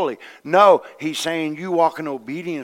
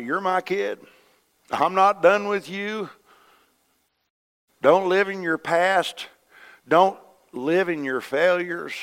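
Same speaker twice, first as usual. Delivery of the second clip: slow, raised, measured voice of God; God reassuring his child; 5 semitones higher, slower than usual. Acted. Heavenly Father reminding a griping child, slow and emphatic. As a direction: space the words out firmly, pitched up. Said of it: "he keeps reminding me".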